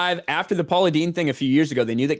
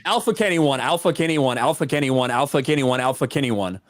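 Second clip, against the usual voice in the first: said fast repeatedly; faster than usual. Shown as a demonstration. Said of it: "how fast can you say the phrase".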